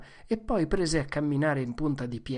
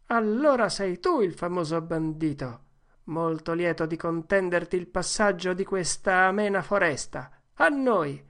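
higher, gallant dare; mock-formal challenge; 4 semitones higher than usual. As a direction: play the noble opponent. Challenge before duel. (sfida cavalleresca per gioco)

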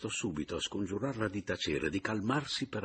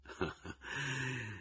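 amused chuckle; 4 semitones higher, 9 dB quieter than usual. Acted. Laughs at the matched children.

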